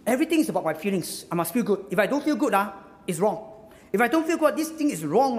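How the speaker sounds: lightly acted indignant grumble, quick start, rising intensity; mock complaining. Preacher voicing a feelings-led believer, mock complaining.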